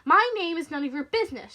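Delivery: indignant woman standing up to a bully; angry retort. Acted. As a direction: fire back with anger. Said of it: "anger replacing her nervousness".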